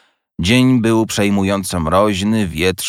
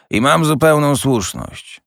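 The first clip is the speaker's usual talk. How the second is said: higher, mocking, slowing to a sneer at the end; scornful old miser; 7 semitones higher than usual. A narrator's reading. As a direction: scoff at his cheerfulness, drawing out the last words. Scrooge scoffs at the nephew. (drwiący, pogardliwy Scrooge)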